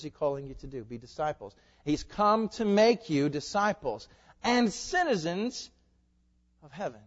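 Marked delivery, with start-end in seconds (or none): 1.8-7.0 slow, much higher and louder, stretched out; preaching climax. Real, not acted. Pastor proclaiming to congregation, rising high and slow. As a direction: lift the words and proclaim them slowly.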